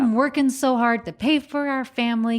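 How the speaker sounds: hammed-up complaining husband; exasperated husband. Husband's rant continues.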